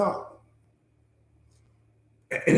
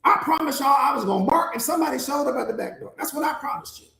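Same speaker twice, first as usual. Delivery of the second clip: protesting dog; 3 semitones higher than usual. Acted. Stressed dog telling coach the limits of the job, protesting. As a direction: plead your case as a stressed-out guard dog. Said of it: "The dog is like".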